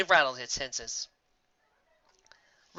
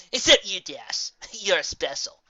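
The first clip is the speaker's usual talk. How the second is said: forced grin; 7 semitones higher, 8 dB louder, slower than usual. A narrator's reading. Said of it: "hastily added with a clenched grin".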